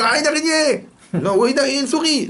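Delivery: high, loud squeal of a scared woman; mock scared woman. Shown as a demonstration. Preacher mimics a woman squealing at a spider, high and loud. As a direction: squeal it like she just saw a spider. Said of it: "Pourquoi elle dit".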